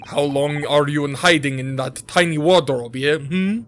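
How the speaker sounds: badly faked Russian accent; amateur Russian accent for a game villain; Russian guy. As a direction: menace them in a mock-Russian accent. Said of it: "it's the Russian guy".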